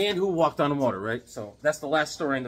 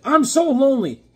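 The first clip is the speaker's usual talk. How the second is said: mock lonely whine; 10 semitones higher, 10 dB louder than usual. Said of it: "He's like".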